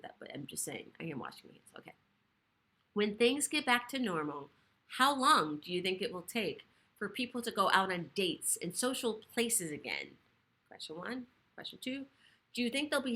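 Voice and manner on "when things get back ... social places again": measured, deliberate read-aloud; slowed-down reading. Real, not acted. Host rereading a viewer's comment, slowed down for clarity. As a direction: read the question slowly and clearly. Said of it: "Let me slow that down".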